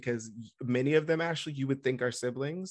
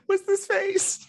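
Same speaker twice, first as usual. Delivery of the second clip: laughing through the words; bursting into giggles; 4 dB louder, slower than usual. Real, not acted. Laughing at partner's face.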